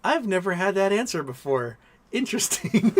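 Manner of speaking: mock child's reply, lifted high; little girl. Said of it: "She's like".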